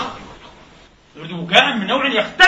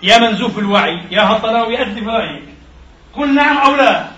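loud, scornful mimicking of the media; mocking impersonation; 4 dB louder than usual. Preacher mimics the news site insulting its readers, jeering. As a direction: jeer it out louder, rising at the end. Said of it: "يقول لك".

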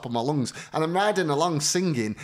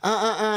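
mock horn honk; 5 semitones higher than usual. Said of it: "and his horn behind me".

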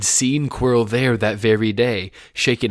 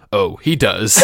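a light laughing aside; casual laugh; 10 dB louder, slower than usual. Acted. Quirrell answering Harry with a casual little laugh. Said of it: "said Quirrell casually".

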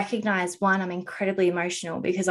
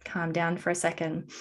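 calming self-talk; 2 semitones lower than usual. Retold or imitated. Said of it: "calm down and be like".

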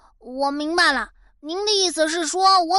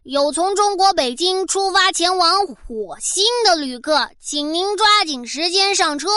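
airport announcement. Pretend. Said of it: "都到了外星球了".

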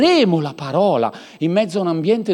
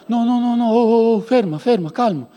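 mock panicked calming; 5 semitones higher than usual. Mock people calming bomb threat.

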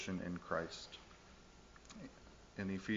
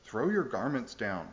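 cross; 3 semitones higher, 6 dB louder than usual. Acted. Proud donkey scolding the crowd, cross and loud. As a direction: snap it like an offended donkey. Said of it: "he said crossly".

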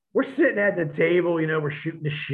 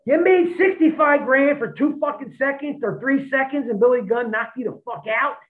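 higher, disbelieving jab; incredulous mockery; 10 semitones higher than usual. Wrestlers mocking JBL's payday, higher and incredulous. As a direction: ridicule the payday.

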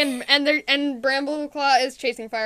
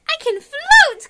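high, loud, drawn-out play voice; silly character boast; 13 semitones higher, 9 dB louder, much slower than usual. Pretend. Velvet claiming to float, high silly boast.

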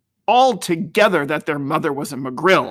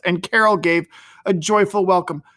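ordinary delivery

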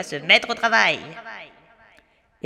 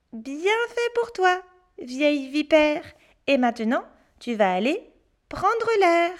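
put-on child voice; 5 semitones higher than usual. Pierre mocks the shrunken witch.

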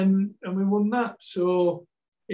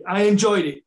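higher and louder, punching enjoyed; emphatic burst; 4 semitones higher, 6 dB louder than usual. Real, not acted. Ex-footballer telling podcast hosts he loved punditry, emphatic. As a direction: blurt it out with real enthusiasm. Ex-player stressing his TV enjoyment.

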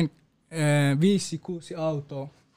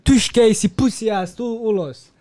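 retold yell; 4 semitones higher than usual. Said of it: "ne huudasi".

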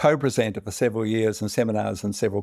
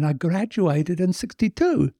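tipsy Irishman; 7 semitones higher than usual. Acted. Drunk Irishman in bar joke.

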